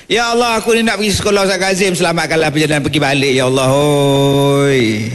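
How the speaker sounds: fast, rattled-off pleading prayer; mock student prayer. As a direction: rush a schoolkid's travel prayer. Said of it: "Ada kita minta". (doa budak sekolah yang laju, mengejek)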